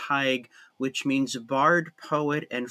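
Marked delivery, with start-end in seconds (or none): 0.1-0.5 "Tig" said like "tyge", long I; Gaelic name form. Shown as a demonstration. Guest giving the oldest form of his name, "Tig" as "tyge". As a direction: draw out "Tig" with the vowel of "tie". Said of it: "oldest form is T A D G H".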